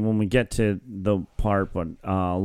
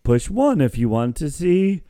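Kramer movie phone voice; 4 semitones higher than usual. Retold or imitated. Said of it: "He took it so seriously".

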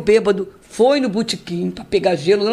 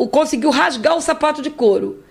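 usual speaking voice

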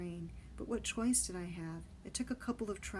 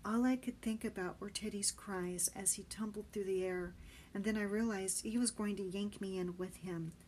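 usual speaking voice

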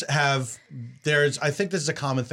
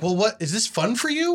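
higher-pitched exasperated challenge; retold indignation, pitched up; 7 semitones higher than usual. Losing player demands answers from the friend beating them, exasperated. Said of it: "I was so angry".

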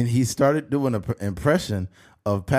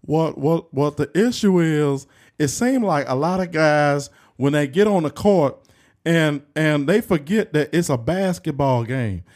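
Charles Barkley; 4 semitones higher, 3 dB louder than usual. Acted. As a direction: do a comic impression of a basketball analyst griping. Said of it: "Because Charles be like".

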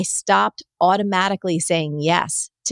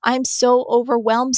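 mock sad lament; 6 semitones higher than usual. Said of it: "the same sad".

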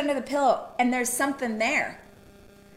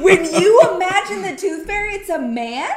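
higher and louder, through a laugh; amused, can't believe it; laughing disbelief; 6 semitones higher, 6 dB louder than usual. Real, not acted. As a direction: laugh while asking.

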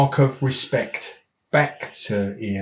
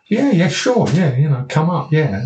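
eager agreeing; 5 semitones higher, 4 dB louder than usual. Retold or imitated. Gav's eager reply to fans.

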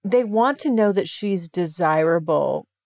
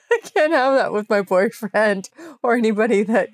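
words bubbling with a laugh; amused laughing repeat; laughing through it; 2 semitones higher than usual. Real, not acted. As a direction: say it again while laughing. Repeats line while laughing.

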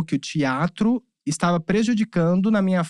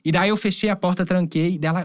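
ordinary talk, nothing marked

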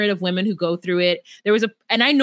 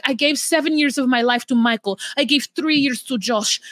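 mimicking Natalie; 4 semitones higher than usual. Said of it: "she's like".

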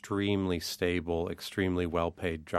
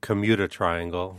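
commuter triangle with dropped r, Boston style; Boston accent. Shown as a demonstration. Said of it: "which said in the Boston accent is the".

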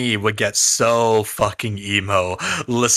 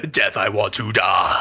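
mock lyric shout; 4 semitones lower than usual. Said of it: "he just says".

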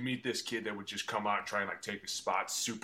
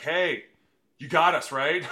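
mock sheepish plea; 6 semitones higher, 9 dB louder, slower than usual. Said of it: "they look at 'em like".

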